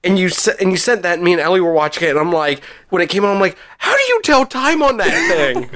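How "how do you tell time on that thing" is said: high, baffled question; puzzled disbelief at the screen. Retold or imitated. Retelling his puzzled reaction.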